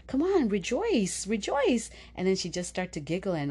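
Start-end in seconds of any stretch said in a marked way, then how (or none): 0.1-1.9 playful cheer. Retold or imitated. Mom spinning child, cheering her.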